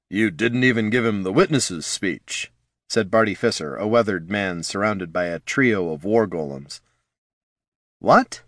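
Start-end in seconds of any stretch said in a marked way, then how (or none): 0.1-2.5 lightly voiced weathered man, wry; a hint of an old killer's grumble; weathered assassin voice. Barty needling the boss, in a lightly voiced weathered tone. 8.0-8.4 sharp high surprised what; startled what. Acted. Flynn caught off guard by Barty, a high surprised what.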